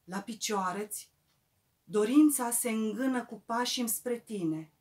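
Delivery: reverent, measured ode; poetry recital. Acted. Poet addressing Eminescu in verse, reverent measured recital. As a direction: recite as homage, settling at the end of each phrase.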